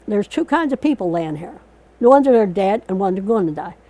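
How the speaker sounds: loud, fast barked order; gruff sergeant shout. Retold or imitated. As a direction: drill sergeant yelling. Sergeant rallying troops on beach.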